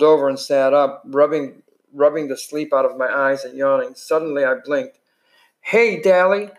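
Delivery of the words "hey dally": high, startled hello; surprised greeting. Acted. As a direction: blurt it out in surprise. Ponyboy greets Dally surprised.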